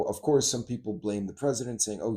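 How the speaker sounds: ordinary talk, nothing marked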